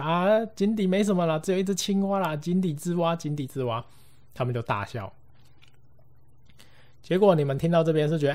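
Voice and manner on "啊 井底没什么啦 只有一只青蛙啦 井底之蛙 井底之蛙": higher, giggly teasing; laughing. Retold or imitated. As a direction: laugh off the scare, fading at the end. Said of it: "就笑". (边笑边调侃，越说越轻)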